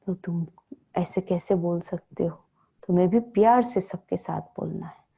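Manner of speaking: put-on softly, lovingly admonishing a child; loving correction. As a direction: speak as a mother correcting her child with love. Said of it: "उसको मम्मा बड़े प्यार से कहती थी".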